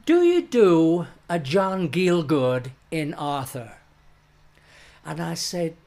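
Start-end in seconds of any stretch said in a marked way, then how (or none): 0.1-3.8 quoting the director. Retold or imitated. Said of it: "And he said".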